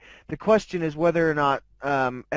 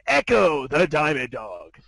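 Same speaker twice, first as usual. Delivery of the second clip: title announcement. Pretend. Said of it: "the big words on the screen".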